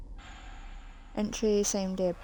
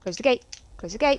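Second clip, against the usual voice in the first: being chased; 4 semitones higher, 5 dB louder than usual. Real, not acted. Being chased, shutting gate.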